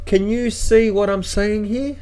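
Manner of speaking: incredulous question. Retold or imitated.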